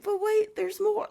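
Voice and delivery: Billy Mays shout. Retold or imitated. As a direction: blast it like a TV ad climax. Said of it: "And he's like".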